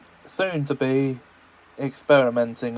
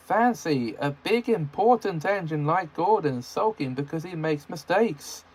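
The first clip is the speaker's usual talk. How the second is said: innocent Percy; 4 semitones higher than usual. Acted. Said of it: "said Percy innocently".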